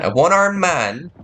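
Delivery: high, loaded incredulous question. Real, not acted. Player reacting to a one-armed sailor, incredulous. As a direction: echo it in rising disbelief. Disbelieving repeat of game text.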